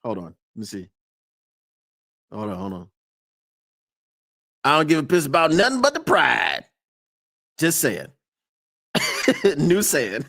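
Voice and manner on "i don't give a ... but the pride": loud quoted catchphrase, Southern twang; louder replay of the catchphrase; quoting the catchphrase. Retold or imitated. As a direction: belt out the catchphrase. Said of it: "So Drewski said".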